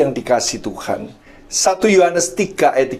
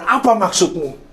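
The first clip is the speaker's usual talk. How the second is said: retold angry rebuke, raised pitch; kemarahan yang ditirukan; 5 semitones higher than usual. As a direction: recount telling off a bully, indignant but controlled. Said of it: "Saya marah, saya, mata saya melotot". (menirukan teguran marah dengan nada tinggi)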